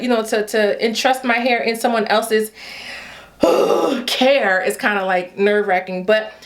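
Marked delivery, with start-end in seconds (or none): 3.4-4.0 big audible exhale; anxious sigh. Real, not acted. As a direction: let out a heavy, nervous sigh. Nervous about entrusting her hair.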